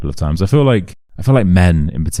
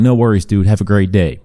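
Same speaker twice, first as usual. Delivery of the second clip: higher-pitched imitation Canadian accent; 4 semitones higher than usual. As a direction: imitate a Canadian dude saying goodbye. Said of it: "all Canadians sound like that".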